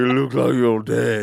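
hammed-up Cockney murderer. Comic playing a murderer from the British series, mock Cockney. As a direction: play it as a comic Cockney killer. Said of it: "I'm a Cockney person".

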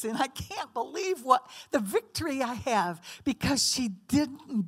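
mock Satan delighting in a victory; gloating Satan. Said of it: "then Satan is so happy".

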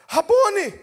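high-pitched cry of recognition; exclaiming. Acted. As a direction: exclaim it to a beloved teacher. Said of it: "Maria exclamou em aramaico".

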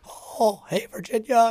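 very high, strained cartoon mouse; botched falsetto Mickey hello; failed Mickey Mouse voice. Dad attempting Mickey for Virginia with a lost voice, strained squeaky mouse. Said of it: "I couldn't do the voice at all".

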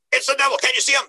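high, pleading panic; freaking out. Retold or imitated. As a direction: insist in alarm that he's right there. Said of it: "he's getting all freaking out".

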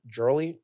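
"Jewelry" squeezed short, as a question; unsure pronunciation. Shown as a demonstration. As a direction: try "Jewelry" uncertainly, slurring the middle. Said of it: "I can't say that word".

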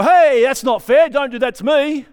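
whiny protest. Retold or imitated. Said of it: "we'll go".

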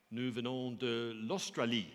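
halting French, drawn out slowly; slow, careful learner's French; schoolboy French. Acted. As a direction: labour through it in schoolboy French. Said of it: "summoning my schoolboy French".

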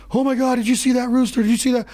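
high, thrilled squeal of disbelief; excited girlfriend. Retold or imitated. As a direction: gush like she just spotted a rare bird. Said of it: "my girlfriend Anna is losing her mind".

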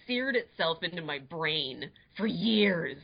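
normal talking voice

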